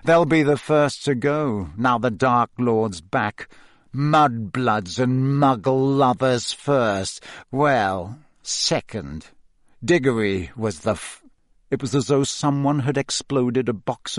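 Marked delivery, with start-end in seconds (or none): 0.0-11.2 slow, drawling schoolboy sneer; sneering Malfoy. Acted. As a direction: taunt Potter with cold contempt.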